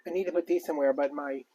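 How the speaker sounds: winded, breathing between words. Real, not acted. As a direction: talk while out of breath. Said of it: "I'm so out of breath".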